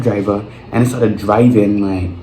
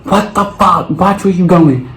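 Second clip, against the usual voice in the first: much higher, mock outraged snap; mocking the angry mother; 9 semitones higher, slower than usual. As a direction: play the rude mother, pitched way up in mock anger. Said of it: "Here come the white lady".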